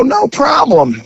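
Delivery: slow, drawn-out no problem; mock casual. The cop playing along with her, slow and mock-casual. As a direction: stretch it out like it's nothing. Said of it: "I go".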